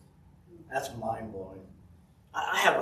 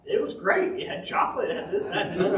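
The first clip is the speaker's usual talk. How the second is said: put-on much higher little girl gushing; higher mock child voice, gushing; imitating his daughter; 8 semitones higher, faster than usual. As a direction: squeak it out like an excited kid listing treats. Daughter voiced gushing about gift.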